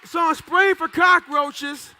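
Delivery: loud, slow and drawn out; storytelling shout. Acted. Telling the crowd about the job: a slow, loud shout. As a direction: hammer each word at the crowd.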